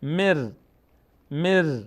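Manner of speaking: مر ending on a held r; n merged into ra. Shown as a demonstration. Teacher shows the silent n, مر with r instead. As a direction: roll into a held r on مر. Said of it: "یک حرف رای ساکن باید تلفظ کنیم".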